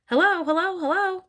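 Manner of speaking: high, loud parrot call. A narrator's reading. Hidden parrot interrupts the listening family, parrot voice. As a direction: squawk the words out high.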